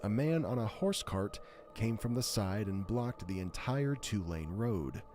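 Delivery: smooth, steady reading voice; reading a glitch story to the stream, smooth narration. Acted. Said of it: "when I start reading, it sounds different".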